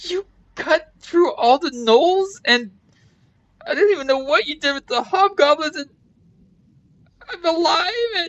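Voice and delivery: very high voice, sobbing through every word. Voicing a game character rescued by the party who bursts into tears, crying while speaking. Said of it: "And she just starts crying".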